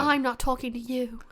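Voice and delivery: a lightly voiced serious British accent. Shown as a demonstration. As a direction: say it like a stern British detective. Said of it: "yeah, like that".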